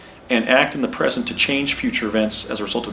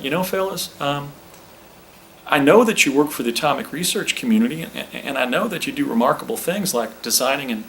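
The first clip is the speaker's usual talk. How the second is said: Southern Clinton voice, higher and folksy; Bill Clinton impression; 4 semitones higher than usual. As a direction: play young Clinton musing to the fellas. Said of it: "that was a little better".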